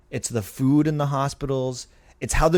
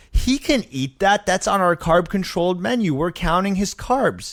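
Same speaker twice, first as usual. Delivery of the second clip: raised voice; 6 semitones higher than usual. Retold or imitated. Nutritionist defending the menu to the doctor, raised voice. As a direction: push back hard and deliberately. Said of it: "raises her voice".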